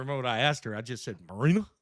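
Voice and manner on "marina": Marina? drawled in a Southern twang, rising. Retold or imitated. Asking the actress her name at a panel, in a Southern twang. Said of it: "in my southern twang".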